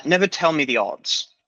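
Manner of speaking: put-on lightly done British accent; a hint of British accent. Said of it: "Year one with the British accent".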